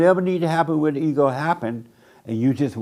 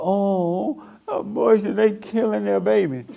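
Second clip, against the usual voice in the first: higher, scandalized mock voice; mock judgmental gossip; 6 semitones higher, slower than usual. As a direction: imitate a pearl-clutching judge. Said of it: "But you're judging people".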